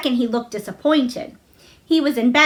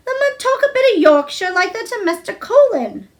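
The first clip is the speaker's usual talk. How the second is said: chuckled; 9 semitones higher than usual. A narrator's reading. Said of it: "Dickon chuckled".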